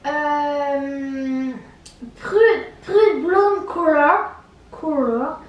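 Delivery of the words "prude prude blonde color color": English accent. Real, not acted. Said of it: "j'ai un accent parce que je".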